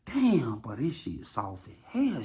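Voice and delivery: breathy whisper, voice gone; whispered aside. Retold or imitated. Him hugging her, whispering to himself. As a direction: hush it like a secret. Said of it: "I'm like (whisper)".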